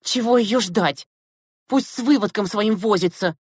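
high, scornful complaint; contemptuous snorting. A narrator's reading. Girls refusing to wait for Zyuzina, scornful. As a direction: scoff like disdainful schoolgirls. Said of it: "презрительно зафыркали".

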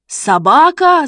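high, loud indignant exclamation; outraged cry. A narrator's reading. Mother repeating the word back to Shishkin, outraged cry. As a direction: cry out in angry disbelief. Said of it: "закричала мама".

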